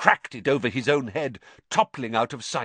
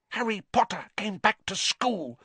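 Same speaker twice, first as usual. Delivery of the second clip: high, squeaky elf voice, miserable and hushed; miserable house elf; 11 semitones higher than usual. Acted. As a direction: house elf, near tears, high-pitched. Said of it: "he whispered miserably".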